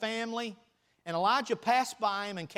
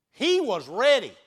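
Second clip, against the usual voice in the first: louder with a laugh, "ready" stretched out; laughing repeat; 4 semitones higher, 8 dB louder than usual. Shown as a demonstration. Preacher laughs and repeats that Elijah was ready. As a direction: laugh and hit it again, louder.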